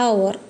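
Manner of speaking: അവർ said with no h, opening on the vowel; silent h. Shown as a demonstration. Teacher models the silent h in hour. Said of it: "എച്ച് silent നമ്മൾ അവർ എന്നാ പറയുക".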